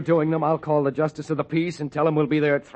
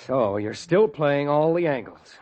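slow, cold and bitter; bitter accusation; slower than usual. Acted. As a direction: drag it out with contempt. Jeff realises he was tricked.

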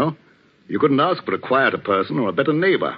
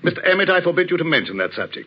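sharply forbidding, pitched higher; sharp rebuke; 6 semitones higher than usual. Acted. Vicar rebukes the man for mentioning the invisible man, sharply. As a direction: cut him off with a stern reprimand. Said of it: "I spoke too sharply".

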